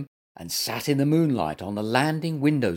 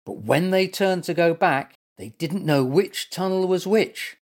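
raised, dramatic storyteller voice; suspenseful story narration; 6 semitones higher, 4 dB louder than usual. A narrator's reading. Storyteller ending the episode on a cliffhanger, suspenseful. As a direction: build suspense for young listeners, pitch lifted.

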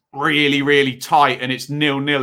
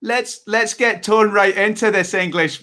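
attempted Scottish accent; 5 semitones higher, slower than usual. Shown as a demonstration. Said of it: "give me some Scottish stuff".

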